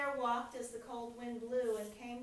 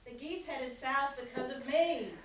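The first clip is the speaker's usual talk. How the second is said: wind's voice; 12 dB louder than usual. A narrator's reading. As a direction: puff up as the proud wind. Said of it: "And the wind said".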